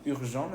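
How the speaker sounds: "urgent" as ür-zhan, ending without T; silent final T. Shown as a demonstration. Teacher points out the missing consonant, silent T. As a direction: leave the T of "urgent" unsounded. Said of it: "no se escucha la T".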